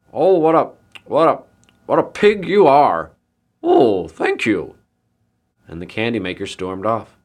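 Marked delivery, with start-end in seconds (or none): 0.1-3.1 loud, spluttering, raised voice; outraged candy maker. A narrator's reading. Candy maker scolding the pig that ate his treats, spluttering outrage. 3.6-4.7 high, slow, loud pig voice; pleased pig. A narrator's reading. Pig taking the candy maker's insult as praise, high and pleased.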